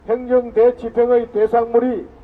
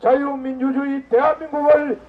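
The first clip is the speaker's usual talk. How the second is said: roaring rallying speech; 3 semitones higher than usual. Real, not acted. Rally leader calls crowd chant.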